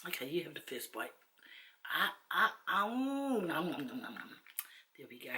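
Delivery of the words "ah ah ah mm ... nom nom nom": sing-song chomp, rising then tumbling down; munch noisily on make-believe nom-noms; playful eating noises. Pretend. Vlogger opening a first bite for viewers, playful eating noises.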